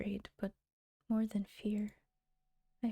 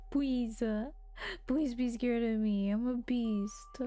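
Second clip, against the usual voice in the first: mock sad beast. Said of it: "he really sounds like a really sad".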